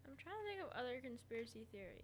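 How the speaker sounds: breathy whisper. Real, not acted. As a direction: whisper it to yourself. Whispered thinking aloud.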